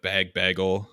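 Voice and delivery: "bag" with the vowel of "bagel"; Minnesotan vowel. Shown as a demonstration. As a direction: say "bag" as BAYG, then "bagel". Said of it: "my accent comes out on when I say bag".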